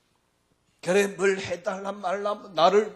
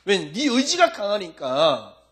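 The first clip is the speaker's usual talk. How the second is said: pleading Jesus; 3 semitones higher, 5 dB louder than usual. Acted. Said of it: "이럴 겁니다, 아마".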